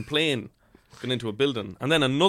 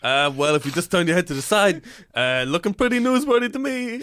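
high sarcastic patron; 7 semitones higher, 7 dB louder than usual. Pretend. Patron sarcastic reply in improv.

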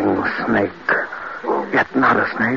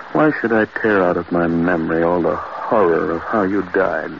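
low grieving; 5 semitones lower, 3 dB quieter than usual. Acted. Grief after the horror.

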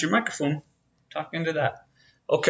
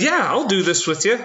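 imitating wife; 6 semitones higher than usual.

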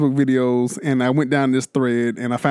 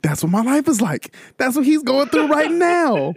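mock lament; 12 semitones higher than usual. Mocking the kid's lament.

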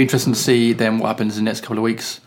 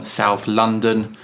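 slow, put-on South London accent; much slower than usual. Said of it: "tries to put a South London accent on".

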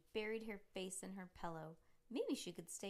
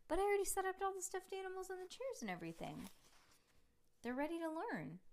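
put-on eager little boy; 11 semitones higher, 4 dB louder, faster than usual. Little brother pleading.

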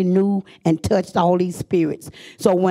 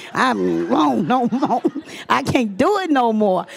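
laughing; 4 semitones higher than usual. Real, not acted. Laughs while retelling despair.

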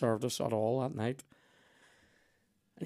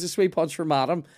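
lightly voiced waiter, louder and a little higher; waiter impression; 4 semitones higher, 7 dB louder than usual. Retelling the waiter serving madam, lightly mocked announcement. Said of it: "so he goes".

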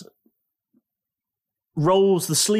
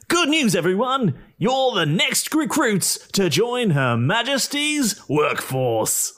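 villain addressing the governor; 9 semitones higher than usual. Acted.

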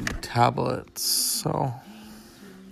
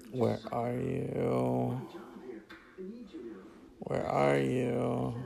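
softly calling; 6 dB quieter, much slower than usual. Acted. Calling for absent Mister Texas.

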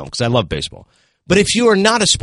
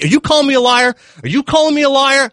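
mock anger; 11 semitones higher, 4 dB louder than usual. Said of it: "he's raising the anger".

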